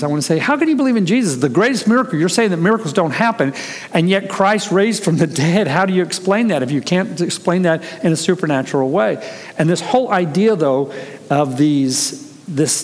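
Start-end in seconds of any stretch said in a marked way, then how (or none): 0.4-9.2 higher-pitched, mildly indignant challenge; incredulous challenge. Retold or imitated. Student wants to challenge the doubting professor, incredulous. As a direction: press the question in a raised pitch.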